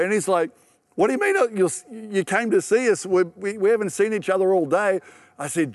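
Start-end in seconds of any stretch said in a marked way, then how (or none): 0.9-5.0 imitating a friend's higher-pitched protest; baffled protest. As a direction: act out a puzzled objection, pitched up. Friend's surprised protest acted out.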